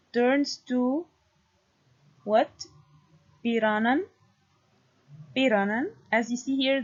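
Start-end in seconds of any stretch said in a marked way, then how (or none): 3.4-5.9 "Piranan" stressed on its first syllable. Shown as a demonstration. Lecturer showing Proto-Germanic word, stress on first syllable. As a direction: put the weight on "Pi" in "Piranan". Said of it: "the stress falls on the first syllable".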